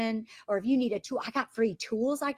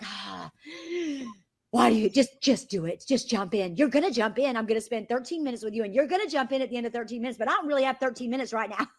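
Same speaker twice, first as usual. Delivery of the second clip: irritated pushiness; faster than usual. Retold or imitated. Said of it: "I get irritated and I'll be like".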